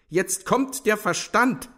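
high, loud, drawn-out announcement; theatrical sarcastic call; mocking call. A narrator's reading. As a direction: announce it slowly and high, jeering. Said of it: "rief Ferfitschkin".

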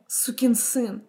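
muttered under her breath; whispered curse. Acted. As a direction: spit the insult in a whisper. Cursing him under breath.

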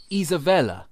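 Isabella in a light foreign accent; little foreign accent. Shown as a demonstration. Host attempting a guest's name, little foreign accent. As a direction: say Isabella with a slight accent, long EE first. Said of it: "he puts on, like, a little accent".

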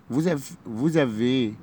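vous avez said slowly, the s of vous as z; slow classroom repeat of vous avez; slowed liaison. Shown as a demonstration. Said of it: "هننطقها زد".

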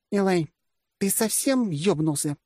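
slow, high-pitched indignation; indignant disbelief. A narrator's reading. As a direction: demand slowly whether he has gone mad. Generalissimus reddening at the insult. (возмущённо, медленно, высоким голосом)

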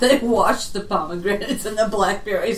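laughing. Real, not acted. Laughing while joking.

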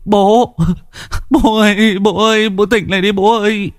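high, tearful pleading; whimpering. A narrator's reading. Son pleading over his dead father, whimpering. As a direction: beg father to wake, voice crumpling. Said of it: "Anh An mếu máo".

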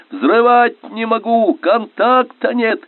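high, urgent yell from the bow; drawn-out high battle shout. A narrator's reading. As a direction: cry out the bad report. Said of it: "кричал минёр с носа".

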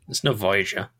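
dry teasing put-down; mock disdain. Real, not acted. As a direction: jokingly sneer at the show. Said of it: "I'm exaggerating a little bit".

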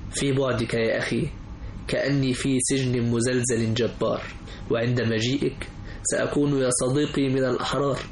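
slow measured poetic recital; poem recitation. Acted. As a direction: recite each line with pauses.

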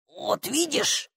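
slow, soft, self-satisfied drawl. A narrator's reading. Stranger has won his point with the girl, satisfied. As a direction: draw it out with quiet satisfaction. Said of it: "заключил удовлетворённый голос".

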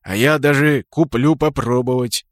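a gloating, relishing tone. Acted. Kraken at the market stall, gloating. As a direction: savour the revenge. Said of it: "Кракен злорадно потёр руки".

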